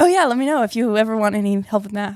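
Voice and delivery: overconfident, wildly confident flirty tone. Reenacting a flirty offer of help with math: acting wildly confident and flirty. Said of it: "I was trying to be flirty. It was like wildly confident".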